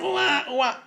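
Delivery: mock infant wail; lightly put-on newborn cry; imitated baby crying. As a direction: mimic a crying baby briefly. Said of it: "cuando el niño empieza a hacer".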